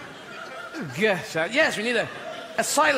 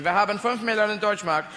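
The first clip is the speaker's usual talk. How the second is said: German caller. Retold or imitated. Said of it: "German people phone up going".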